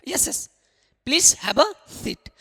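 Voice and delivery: please have a seat dragged out slowly, a pause after Yes, yes; slow modelled phrase. Shown as a demonstration. Teacher modelling interviewer's line for students, slow and clear. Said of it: "अगर interview कहे".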